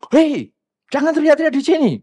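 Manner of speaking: high, loud escalating reprimand. Acted. Impatient person out-shouting the noisy latecomer, angry shout. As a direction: yell it harder, acting out lost patience. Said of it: "Akhirnya kita lebih kencang lagi".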